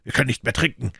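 mildly shouted grievance; shouted complaint. A narrator's reading. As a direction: cry it out in drunken indignation. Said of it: "schrie er".

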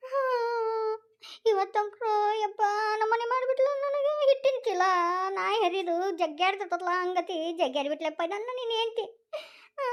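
sing-song hammed-up sobbing complaint; tearful wailing. Mother accusing daughter-in-law before her son, theatrical crying. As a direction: wail it out, milking sympathy.

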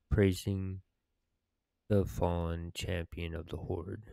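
measured, solemn story narration with pauses; dramatic quest reading. Acted. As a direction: read the quest aloud like a heroic tale. Reads quest dialogue aloud in character.

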